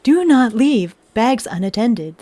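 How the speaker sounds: slow calm transit announcer; deadpan automated bus announcement; robot voice. Retold or imitated. Mocking bus announcements in a calm robot voice. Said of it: "a security bot".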